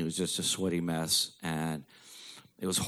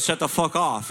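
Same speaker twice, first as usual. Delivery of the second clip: imitating angry dad; 9 semitones higher, 3 dB louder than usual. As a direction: play the dad yelling his wrong phrase. Dad's wrong saying voiced.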